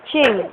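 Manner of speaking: quick playful fake sneeze; pretend sneeze. Mother entertains baby while lifting him, playful pretend sneeze. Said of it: "pagka-atching".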